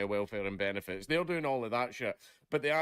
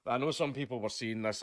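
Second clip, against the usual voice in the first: ordinary delivery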